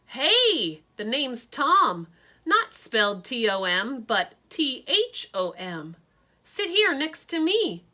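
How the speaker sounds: put-on loud, eager boy calling out, slow on the name; eager yell. Gawky boy yelling to the new girl, loud and eager. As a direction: call across the room, spelling out your name. Tom yells out to newcomer.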